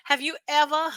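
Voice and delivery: put-on amused, clumsy stab at a New Zealand accent; attempted New Zealand accent. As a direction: imitate a New Zealander, not quite managing it. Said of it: "I can't do her accent".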